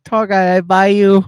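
high, loud mock Asian accent; hammed-up foreign-accented seller. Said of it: "my Asian accent".

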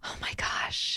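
barely audible whisper of frustration. Real, not acted. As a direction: whisper it under your breath. Whispering while trying to recall.

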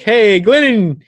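high, loud mock cheer; half-hearted enthusiasm. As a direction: cheer him on without really being hyped. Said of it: "like, half-assed enthusiastic about it".

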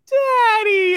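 high, loud mock yell of Daddy; shouted Daddy. Drunk teammate yelling at the interview, high shout. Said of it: "Rizzo comes one second later going".

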